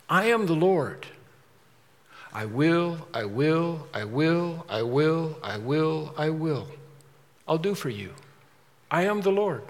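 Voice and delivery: soft, slow, solemn divine voice; lightly voiced Lord, hushed and insistent. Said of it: "then the Lord says".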